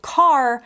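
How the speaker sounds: "car" with its final R fully sounded; demonstrated "car" with a clear rhotic ending; American R. Shown as a demonstration. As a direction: say "car" the American way, strong R at the end. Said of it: "an American might say this word".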